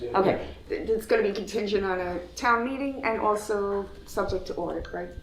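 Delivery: muffled behind a face mask; talking through a mask. Real, not acted. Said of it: "Can you hear me through the mask".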